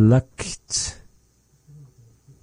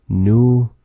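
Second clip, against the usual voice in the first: syllable by syllable; 5 semitones higher, 4 dB louder, faster than usual. Shown as a demonstration. Teacher teaching a new word to learners, "Numauda" syllable by syllable. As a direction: pause between each syllable of "Numauda".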